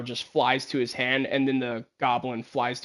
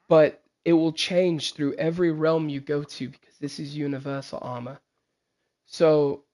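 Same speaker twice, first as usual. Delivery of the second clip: measured royal character voice; stately king. Acted. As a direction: praise the heroes as their formal king. Voices King Teja presenting the armor.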